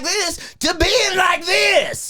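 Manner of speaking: slow, pushed gruff announcer demo; forceful gruff delivery at a slow pace. Shown as a demonstration. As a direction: shift into a big, gruff character voice, drawn out. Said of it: "make it a little more gruff".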